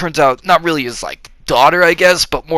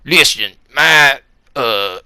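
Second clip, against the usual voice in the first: lightly acted boss giving orders; mock movie boss. Movie boss ordering Cage to rescue his daughter, lightly acted commanding voice. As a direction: put on a slightly forceful commanding voice. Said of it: "he's like".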